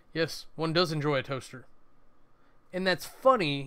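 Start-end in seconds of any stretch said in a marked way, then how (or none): 0.1-1.6 dry, deadpan delivery. Demonstrating a dry-funny line, said in a dry, deadpan delivery. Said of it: "it's dry funny... not said in a humorous fashion".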